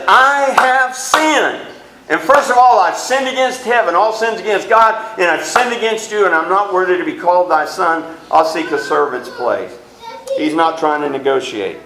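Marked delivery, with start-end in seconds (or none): 0.1-9.7 true remorse. Retold or imitated. The son confessing to his father, earnestly contrite. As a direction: confess it with full sincerity. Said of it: "Remorse is".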